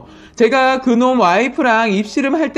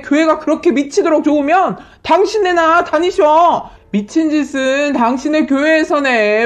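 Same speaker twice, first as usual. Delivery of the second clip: mock drunken rant. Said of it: "술 취한 척 지랄을".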